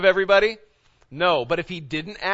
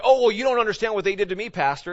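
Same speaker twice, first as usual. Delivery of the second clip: whiny excuse; 5 semitones higher, 5 dB louder, faster than usual. Retold or imitated. Congregant justifying revenge, mocked.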